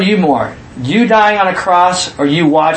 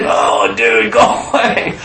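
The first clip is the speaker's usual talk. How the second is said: mock annoyed brush-off; 4 semitones higher, slower than usual. Imagined brush-off of the thief.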